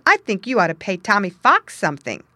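loud, firm refusal; firm declaration. Acted. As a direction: stand your ground loudly. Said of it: "he declared".

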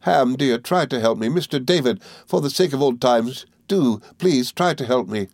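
high, imploring grief; agonised supplication. A narrator's reading. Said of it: "in its agony and grief".

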